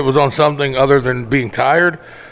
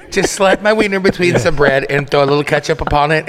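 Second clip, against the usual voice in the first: mock whiny order. Mocking friend's order.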